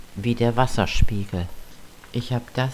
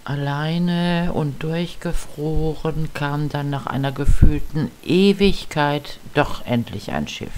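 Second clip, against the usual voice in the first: etwas langsamer, wie eine Dokumentation erzählen; leicht dramatisch vortragen wie ein Märchen; dramatischer Erzähler; 3 semitones higher than usual. Acted. Dramatische Erzählung zum Video. (leicht dramatischer Erzählton)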